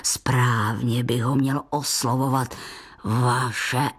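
put-on deep, slow old grandfather; low, unhurried grandpa voice; old grandfather rambling slowly. A narrator's reading. Grandpa speaks.

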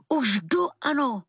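výše položené zvolání bez síly; mírné zvolání. A narrator's reading. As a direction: zavolej zvýšeným hlasem, ne naplno. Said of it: "křikla jsem". (lehce naznačený výkřik)

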